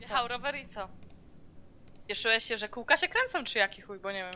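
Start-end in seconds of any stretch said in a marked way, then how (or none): 0.0-0.9 softer, dropping repeat, stress on Jechał; quieter echo. Real, not acted. Repeating his excuse again to herself, dry and quieter. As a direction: let it fall away dryly.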